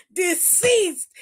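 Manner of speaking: one hushed word for comic effect; whispered punchline. Real, not acted. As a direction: whisper it like a verdict.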